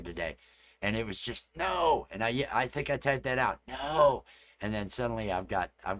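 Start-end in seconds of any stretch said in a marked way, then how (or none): 1.6-2.1 loud exclaimed no; mock outcry. Streamer retelling his reaction to a shared link, mock outcry. 3.7-4.2 loud, raised-pitch no; mock outcry. Streamer retelling his typed reaction, mock outcry.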